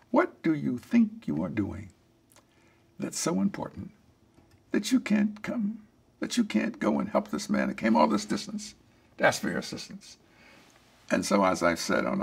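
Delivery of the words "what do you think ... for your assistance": a mild mock of a sarcastic scolding; critical, almost sarcastic. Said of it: "in a critical, almost sarcastic voice".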